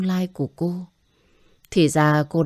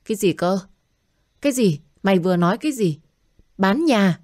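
a shocked cry, pitch jumping up; stunned, demanding he repeat it; shocked mother; 4 semitones higher, faster than usual. Acted. Mother shocked when her son asks to sell the house.

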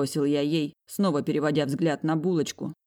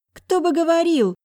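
put-on high, loud snide girl's voice; high sarcastic sister; 13 semitones higher, 7 dB louder than usual. A narrator's reading. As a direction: jab back sarcastically. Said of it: "язвит булочка".

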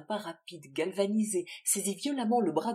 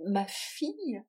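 tender; 4 semitones higher, 4 dB louder, slower than usual. Acted. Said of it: "ces mots eurent ... l'ineffable douceur".

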